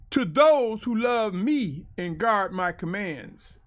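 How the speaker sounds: emphatic, declaimed commandments; scripture reading. Acted. Preacher reading the Ten Commandments aloud, emphatic declamation. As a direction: proclaim the verses in measured, weighty phrases.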